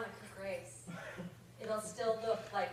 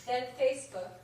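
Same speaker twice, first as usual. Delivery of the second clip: put-on British accent; 4 dB louder than usual. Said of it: "the accent that is about to ensue".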